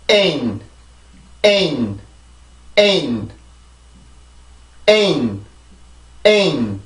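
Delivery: "N" said as "ein", one long falling syllable. Shown as a demonstration. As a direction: model "N": vowel glide down into a held n. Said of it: "자, 해볼게요". ("N"을 '에인' 한 음절로 길게 내려 발음)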